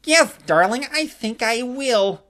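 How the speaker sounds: put-on slow, smooth boyfriend voice; boyfriend impression. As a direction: play the boyfriend coolly. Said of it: "a damn good impression of her boyfriend".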